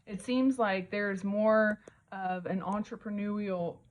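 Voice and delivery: talking around a retainer; wearing a retainer. Real, not acted. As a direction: speak with retainers in your mouth. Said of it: "I have my retainers in".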